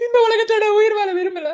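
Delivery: tearful farewell. Acted. Bidding the world goodbye from the ledge, tearful. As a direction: say goodbye to the world through fake tears.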